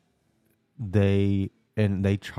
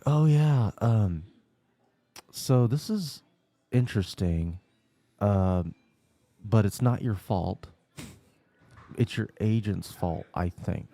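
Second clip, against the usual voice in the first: imitating the helpful lady; slower than usual. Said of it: "She's like".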